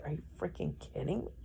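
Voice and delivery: fast, barely audible mutter under her breath; muttered disbelief. Retold or imitated. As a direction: mutter it fast, almost to yourself. Reading his casual text, disbelief.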